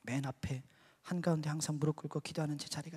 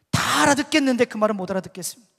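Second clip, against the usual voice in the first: loud, raised objection; retold indignant challenge; argumentative protest; 5 semitones higher, 12 dB louder than usual. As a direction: argue back forcefully. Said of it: "하나님이 따졌습니다".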